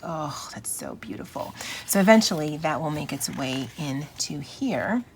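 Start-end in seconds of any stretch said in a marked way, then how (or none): 0.0-1.5 low, soft swoon; hushed admiration. Retold or imitated. Vlogger recalling Morgan Freeman reciting a poem, hushed admiration. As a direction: drop low and soft, as if savoring it.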